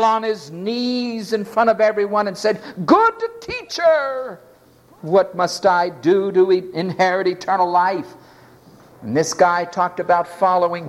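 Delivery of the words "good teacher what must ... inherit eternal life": dramatic. Acted. Rich young ruler kneels before everyone, mock-dramatic appeal. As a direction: make a show of the opening address. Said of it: "such great dramatic demonstration".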